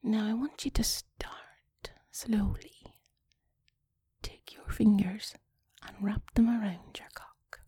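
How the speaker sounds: slow, seductive whisper; sexy whisper. Pretend. Whispered phone-sex guidance.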